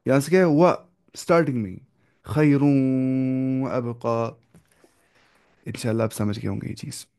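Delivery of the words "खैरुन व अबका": very slow, stretched recitation; slow tajweed chant; Quran recitation. Shown as a demonstration. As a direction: draw out खैरुन व अबका evenly. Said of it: "recites example".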